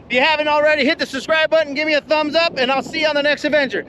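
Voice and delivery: upbeat outro. Real, not acted. Vlog outro sign-off.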